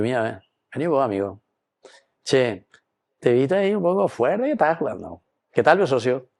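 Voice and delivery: light, friendly and fast; friendly word in the ear. Retold or imitated. Referee to rough player, friendly coaxing word. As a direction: chum up to the player to settle him. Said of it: "Te da la parolina al orecchio".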